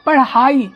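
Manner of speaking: पढ़ाई said slowly with a clear ढ़ flap; carefully sounded पढ़ाई; pronunciation demo. Shown as a demonstration. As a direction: model the word पढ़ाई carefully. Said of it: "pronounce करके देखेंगे".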